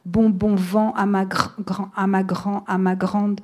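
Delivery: lightly acted stammer on bon and grande; a hint of the brother stuck on each word; understated stutter, restarting the toast. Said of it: "mon frère a bloqué dès la première syllabe".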